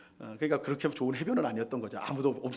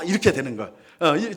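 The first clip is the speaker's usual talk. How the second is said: usual speaking voice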